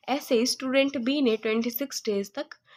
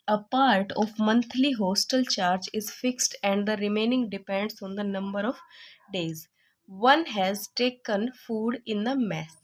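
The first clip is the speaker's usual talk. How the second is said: slow, deliberate read-aloud of a textbook question; reading the problem; much slower than usual. Acted. Tutor reading the exercise to students, slow dictation. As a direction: dictate it word by word so students can follow.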